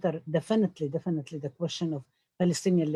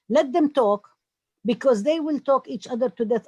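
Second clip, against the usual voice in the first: mock broker voice; 6 semitones higher, 6 dB louder than usual. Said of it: "sit in a room and say".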